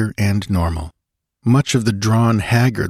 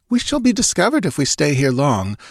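put-on a lightly anxious young woman's voice, higher; Natala's voice; 10 semitones higher than usual. Natala pleading with Conan to hide.

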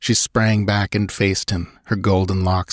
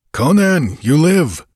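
high, louder cry of relief; joyful exclamation; 8 semitones higher, 5 dB louder than usual. A narrator's reading. Warrior hails revived comrade, excited. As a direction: exclaim it, amazed he survived.

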